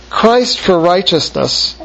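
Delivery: "Christ for righteousness" drawn out slowly, stress on Christ; slow it right down on "Christ for righteousness"; slow emphasis. Shown as a demonstration. Teacher repeating the key phrase to the class, slow and weighty. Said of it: "keep in your mind just that phrase".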